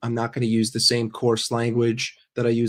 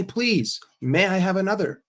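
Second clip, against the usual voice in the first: mock begging; 7 semitones higher than usual. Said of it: "We say".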